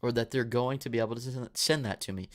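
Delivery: tripping over the words; stumbling, repeating words with a dry mouth; stuttering. Real, not acted. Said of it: "Dude, I'm stuttering".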